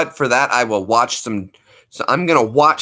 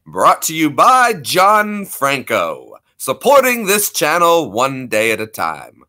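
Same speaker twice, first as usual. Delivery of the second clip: slow, lightly voiced radio announcer; 3 semitones higher, 3 dB louder, slower than usual. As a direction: read it like a sponsor spot. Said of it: "Little radio voice there".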